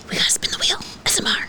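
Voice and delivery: excited hushed whisper; breathless quick whisper. Real, not acted.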